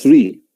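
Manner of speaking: "three" begun with a lisped Z sound; correct TH. Shown as a demonstration. Teacher repeats the right sound to class, correct TH. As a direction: put a TH, not T, at the start of "three". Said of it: "Con la Z se pronuncia".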